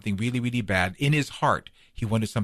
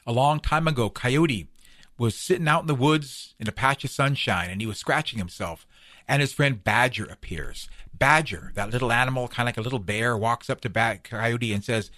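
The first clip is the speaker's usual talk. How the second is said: animated oral storytelling, slightly raised; story narration. A narrator's reading. Storyteller begins a coyote tale for the listener, animated narration. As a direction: tell it as a lively folk tale.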